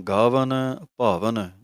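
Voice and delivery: ਗਾਵਨ and ਭਾਵਨ said with a clear final -ਨ sound, not ਗਾਵਹਿ; pronunciation demo. Shown as a demonstration. Teacher showing the sangat the word ending, pronounced carefully. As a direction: pick out ਗਾਵਨ and ਭਾਵਨ slowly, ending each on -ਨ. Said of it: "ਗਾਵਹਿ ਦੀ ਜਗ੍ਹਾ ਤੇ ਗਾਵਨ ਆ ਗਿਆ ਹੈ".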